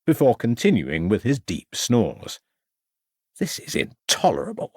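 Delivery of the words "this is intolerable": exclaiming. A narrator's reading. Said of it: "exclaimed Ravenscroft".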